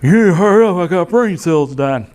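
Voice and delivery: mock panicked demand to hurry; urgent patient plea. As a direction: imitate a frightened patient urging speed. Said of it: "I remember him saying this".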